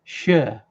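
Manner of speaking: "Shire" as a short "shuh"; British-style Shire. Shown as a demonstration. Demonstrating the ending as in Yorkshire, British-style Shire. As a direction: say "Shire" with no long i, just "shuh". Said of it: "as in Yorkshire".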